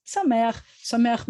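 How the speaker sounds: Sameach said brightly with an audible smile. Shown as a demonstration. Teacher shows students how to say happy, smiling. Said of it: "you have to say it with a smile".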